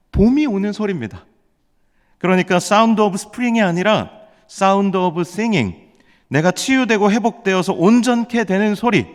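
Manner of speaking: fervent, high-pitched sermon proclamation; emphatic preaching. Real, not acted. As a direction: drive the key point home phrase by phrase. Preacher builds to sermon's key point.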